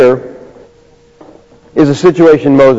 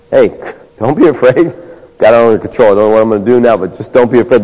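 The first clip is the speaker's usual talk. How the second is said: mock reassurance; 4 semitones lower, faster than usual. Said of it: "I'm sure that was comforting".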